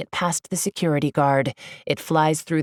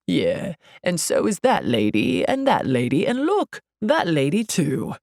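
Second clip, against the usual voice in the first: lightly voiced scornful security guard; sardonic, with swooping pitch; sarcastic guard. A narrator's reading. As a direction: point out each one with dry sarcasm. Guard mocks her claim.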